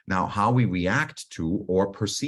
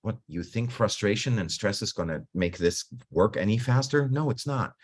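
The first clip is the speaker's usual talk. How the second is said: higher pitched, scolding her own impatience; mock self-scolding; 4 semitones higher than usual. Coach scolding herself over a crashed computer, mock exasperated. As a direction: needle yourself like a fed-up parent. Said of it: "It's like".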